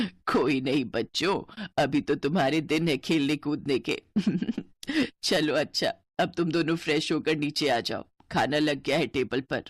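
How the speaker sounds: put-on an older mother-in-law gently scolding the kids. Mother-in-law speaks kindly.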